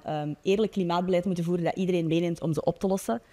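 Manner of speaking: ordinary talk, nothing marked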